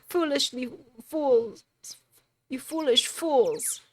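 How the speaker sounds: high mock haughty prosecutor; Franziska von Karma. Streamer mimicking Franziska, high haughty scorn. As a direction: sneer it down at the fools. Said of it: "My name is Franziska von Karma".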